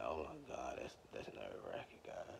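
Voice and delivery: awed whisper to God. Retold or imitated. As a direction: whisper it like a secret prayer. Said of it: "That's how I be talking".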